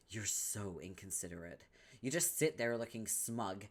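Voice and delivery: ordinary talk, nothing marked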